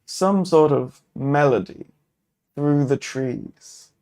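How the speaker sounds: measured, descriptive game master narration; steady storyteller voice setting the scene; story narration. A narrator's reading. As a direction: paint the forest scene for the table. Solo GM narrates the grove scene.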